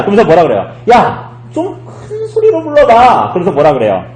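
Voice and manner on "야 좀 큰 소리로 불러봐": high, drawn-out mocking call; taunting. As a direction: jeer slowly in a raised voice, imitating a taunter. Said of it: "조롱합니다".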